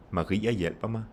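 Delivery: "Maria" and "hjælper" stressed, "mig" unstressed. Shown as a demonstration. Teacher combining name and pronoun, no stress on "mig". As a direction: hit "Maria" and "hjælper", let "mig" fall light. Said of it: "you have the stress on Maria".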